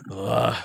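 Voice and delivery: short groan of a waking corpse. Acted. Dead head of Silas wakes on the table, groaning. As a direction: groan as if coming back to life.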